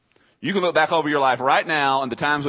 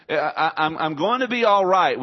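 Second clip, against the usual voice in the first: higher and louder, declared with conviction; confident declaration; 4 semitones higher, 5 dB louder than usual. Shown as a demonstration. Pastor showing what believers should say, higher and louder. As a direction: say it like you believe it. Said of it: "we need to be able to say".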